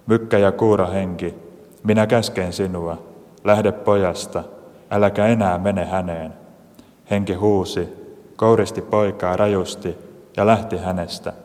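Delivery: measured liturgical reading voice; gospel reading. Acted. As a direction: read the scripture steadily to the congregation. Reads the gospel aloud. (evankeliumin luenta)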